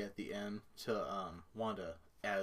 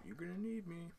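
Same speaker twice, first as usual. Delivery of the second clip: creepy villain voice; 9 semitones higher, 7 dB quieter than usual. Retold or imitated. Quoting Agatha's creepy line.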